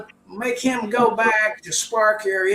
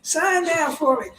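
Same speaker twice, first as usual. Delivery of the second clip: higher mock cops turned fans shouting Yoki; excited fans calling; 7 semitones higher than usual. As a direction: call out like starstruck fans. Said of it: "they're going".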